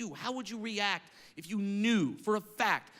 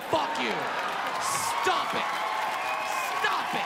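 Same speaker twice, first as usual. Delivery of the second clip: angry rant; 5 semitones higher than usual. Real, not acted. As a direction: yell it at the coddling parents. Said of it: "comic rant climax".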